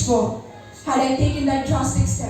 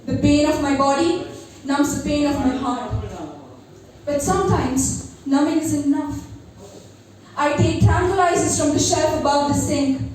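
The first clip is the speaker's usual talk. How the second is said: poem recitation. Acted. Recites her poem Metanoia.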